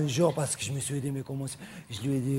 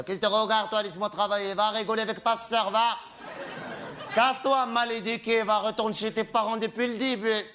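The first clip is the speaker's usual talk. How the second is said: telling off a heckler; 4 semitones higher than usual. Acted. Scolding a heckler in audience.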